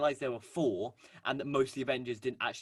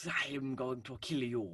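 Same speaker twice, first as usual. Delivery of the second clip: Bossk; 3 dB quieter, slower than usual. Acted. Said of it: "like, Bounty Hunter impressions".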